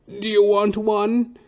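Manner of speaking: put-on high, loud, drawn-out old man's groan. Barber suddenly groans mid-haircut, high moan. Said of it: "and he goes".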